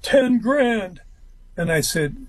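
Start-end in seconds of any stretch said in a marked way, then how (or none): 0.0-1.0 a hint of gruff, flat price demand. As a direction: lightly imitate his gruff voice. Jimmy names his price.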